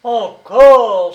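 encore shouted loud and high; outraged cry. A narrator's reading. Prisoner protesting the name again, outraged shout. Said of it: "s'écria-t-il".

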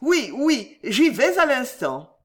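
high, hasty, uneasy assent; pained eagerness. A narrator's reading. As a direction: promise it through a forced smile. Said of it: "avec un sourire qui faisait mal à voir".

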